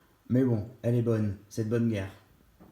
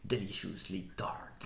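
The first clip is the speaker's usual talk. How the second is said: slow, showy English accent from a French speaker; drawn-out attempt at an English accent; super English accent; much slower than usual. Shown as a demonstration. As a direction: read the label slowly in careful English. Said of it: "avec mon super accent anglais".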